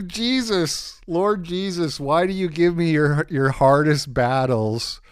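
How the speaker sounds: mock lament sinking back down, slowing; fading mock prayer. Streamer's mock prayer to Jesus fading, slowing down. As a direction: let the wail fade into a slow plea.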